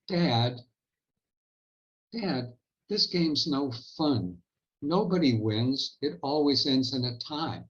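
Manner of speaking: mildly imitating a bored kid's whine; complaining. Girl complaining to her father about the game, mock whiny. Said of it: "in a complaining voice".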